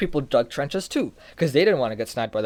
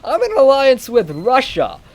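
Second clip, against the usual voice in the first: much higher, louder, laughing hammed-up protest; mock France; 8 semitones higher, 6 dB louder than usual. France warning Germany, high panicked mock voice. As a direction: squeal it like a panicky ally. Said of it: "France is like".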